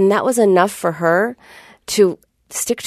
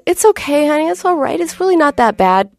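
dismissive soothing; 8 semitones higher than usual. Retold or imitated. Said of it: "I did the classic wrong thing".

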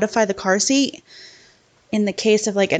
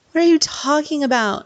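incredulous; 5 semitones higher than usual. Retold or imitated. Mom reacting to son's roly-poly claim, incredulous. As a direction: throw it back in disbelief.

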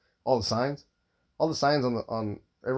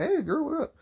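flirty pickup line. Retold or imitated. Imagined flirting with women.

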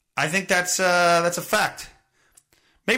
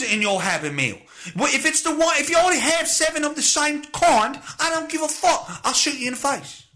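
unhinged security guard, higher and manic; imagined unhinged guard; 6 semitones higher than usual. Pretend. Comedian voicing guard threatening customers, manic higher voice. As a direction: play a deranged McDonald's guard threatening customers.

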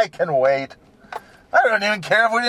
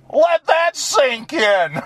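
mock solemn; 5 semitones higher, slower than usual. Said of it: "then they go".

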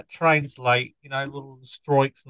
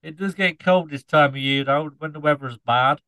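put-on Norfolk scarecrow accent. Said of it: "explain the accent".

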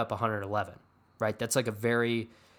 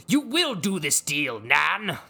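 slow, loud, high theatrical command; hammed-up imperious patriarch; Logan Roy; 5 semitones higher, 6 dB louder, slower than usual. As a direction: order it like a Shakespearean king. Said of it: "Logan Roy doesn't really talk like that".

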